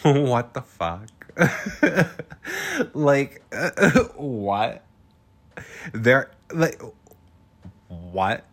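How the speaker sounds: laughing. Real, not acted. Laughing disbelief at Kyle.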